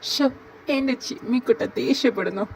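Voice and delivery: playful fond tease at a sulking friend; cooing tease. Acted. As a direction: gush over how cute the anger is. Cooing over an angry friend.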